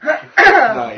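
laughing high. Real, not acted. Laughing reaction.

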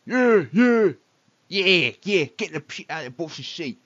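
high, loud egging-on lackeys; cheering henchman. Acted. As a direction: whoop along with the boss like a goon.

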